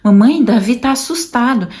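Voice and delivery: put-on a light childlike call to mom; imitating her son. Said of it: "ele mesmo fala". (filho avisando a mãe que está assustado, voz infantil mais aguda)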